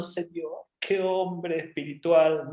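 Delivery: lightly voiced weepy admiration; slow, drawn-out mock awe; mock-tearful little fish. Little fish moved by Jonah, mildly mock-tearful. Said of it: "todos los pececitos llorando como diciendo".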